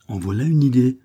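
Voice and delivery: indignation, plus haut et plus fort; un garçon vexé qui proteste; avec indignation. A narrator's reading. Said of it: "repartit le vicomte avec indignation". (le jeune vicomte s'indigne devant l'institutrice)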